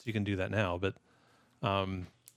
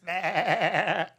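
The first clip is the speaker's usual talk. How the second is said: horse neigh; 7 semitones higher than usual. Pretend.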